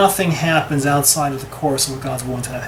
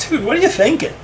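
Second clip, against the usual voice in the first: much higher, casual incredulous dude voice; talking donkey; 10 semitones higher, faster than usual. Retold or imitated. Donkey asking Bilam what he's thinking, in a high incredulous voice. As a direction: play the donkey, baffled at its rider. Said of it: "Donkey looks at him and says".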